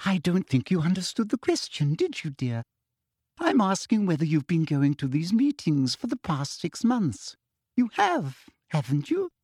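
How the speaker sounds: sugary, high-pitched toad-like sneer; prim, falsely sweet official; Umbridge voice. Acted.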